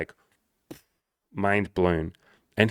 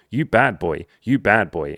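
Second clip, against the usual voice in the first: broken English; 2 semitones higher, 7 dB louder, slower than usual. Retold or imitated. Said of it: "in broken English".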